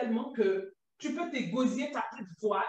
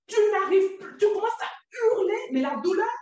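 speaking loudly; 5 semitones higher, 5 dB louder than usual. Real, not acted. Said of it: "excuse-moi quand je parle fort".

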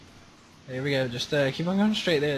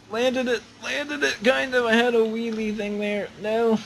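much higher, louder cheer; excited landing cheer; 5 semitones higher, 3 dB louder than usual. Real, not acted. Gamer after landing a truck jump: high excited cheer. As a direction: celebrate the landing.

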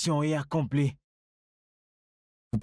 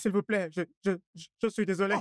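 stammered pleading; 5 semitones higher, faster than usual. Acted. Arrested man begging forgiveness.

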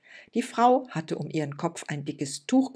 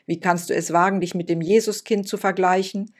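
shouting; 2 semitones higher, 7 dB louder than usual. Acted. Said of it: "schrie er".

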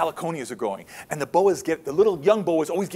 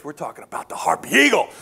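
dramatic whisper. Acted. Dramatic reveal of the star bird.

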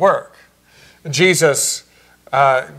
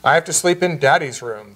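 said tenderly. Retold or imitated. Mother tucking her son in, answering him tenderly. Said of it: "she said tenderly".

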